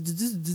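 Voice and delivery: "du, du, du" said as "dzu" with a soft, quiet buzz. Shown as a demonstration. Buzzing "du" for listeners like a bumblebee. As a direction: repeat the affricated "du" like a bee. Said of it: "le petit du".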